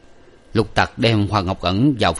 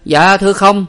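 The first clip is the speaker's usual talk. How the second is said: put-on high, louder boyish servant voice; servant boy's answer; 11 semitones higher, 7 dB louder than usual. A narrator's reading. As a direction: pipe up like a young servant. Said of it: "Lục Tặc đáp".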